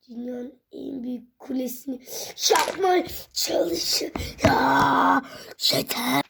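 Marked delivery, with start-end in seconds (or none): 2.5-6.2 whiny near-crying complaint; frustrated whimper. Real, not acted. Tower fell again, kid whines near tears.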